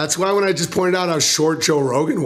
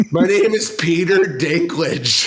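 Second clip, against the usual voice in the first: hammed-up Dinklage intro; 2 semitones higher than usual. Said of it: "It's like".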